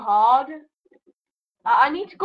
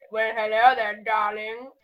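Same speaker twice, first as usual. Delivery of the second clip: Bubbles voice; 3 semitones lower, slower than usual. Acted. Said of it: "I've turned into Bubbles from, um, Little Britain".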